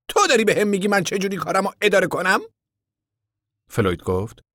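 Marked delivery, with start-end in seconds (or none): 0.1-2.4 higher, louder, a touch of frown; frowning contractor. A narrator's reading. Contractor snapping back at Floyd with a frown. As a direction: contractor pushes back, lightly annoyed. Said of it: "اخم کرد و جواب داد".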